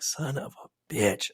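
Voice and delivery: slow, mild mock exasperation; understated son of a bitch; exasperated. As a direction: groan it at the fish tank request. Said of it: "And I'm like".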